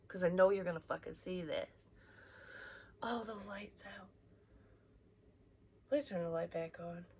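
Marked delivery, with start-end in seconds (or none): 3.0-4.1 startled unvoiced whisper. Real, not acted. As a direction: whisper it as the room goes dark. Lights go out mid-recording.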